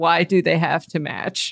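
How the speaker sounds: usual speaking voice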